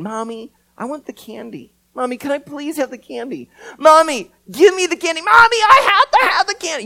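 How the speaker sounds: put-on a kid in the store wailing for candy, building up; a child nagging mommy for candy until it becomes a scream; whining kid building to screaming. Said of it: "starts saying".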